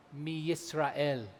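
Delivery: "mi Yisrael" set apart and slowed right down; slow, deliberate weight on "mi Yisrael"; stress on YISRAEL. Shown as a demonstration. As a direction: draw out "mi Yisrael" as the key words. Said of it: "I'll emphasize that word".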